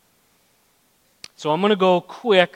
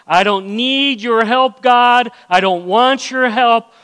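raised, louder defiant brush-off of God; proud self-reliance; 4 semitones higher, 3 dB louder than usual. Retold or imitated. Preacher voicing a proud believer to the congregation, defiant and raised. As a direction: act out a stubborn believer refusing help. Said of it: "Pride is".

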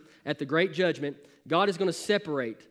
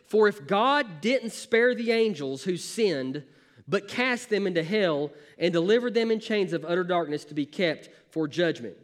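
scripture reading. Acted. Reads scripture aloud.

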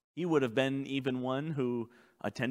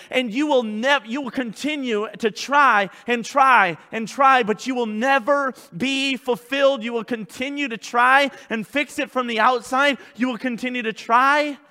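louder, raised preaching voice; full-force preaching; 7 semitones higher, 7 dB louder than usual. Real, not acted. Pastor confessing the need for change, forceful preaching. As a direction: press each phrase home with force.

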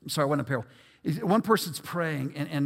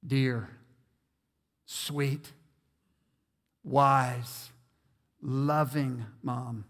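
turning on the charm; 5 semitones lower, much slower than usual. Retold or imitated. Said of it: "I would turn on the charm".

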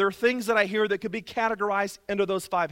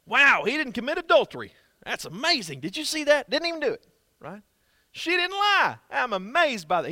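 lightly hammed-up gushing; mock impressed; 4 semitones higher, 3 dB louder than usual. Preacher mocking praise for mere obedience, mild sarcastic gush. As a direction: pretend to be wowed by small things. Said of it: "he was not impressed with their obedience".

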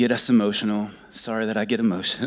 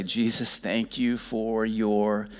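tender prayer; slower than usual. Acted. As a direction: pray it gently. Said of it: "the goal is to just say".

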